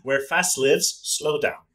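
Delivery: slow reading, "lives" with long i as in "knives"; lives said wrong way. Shown as a demonstration. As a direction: drawl "fast lives" with long i, playful. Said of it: "I like it better like that".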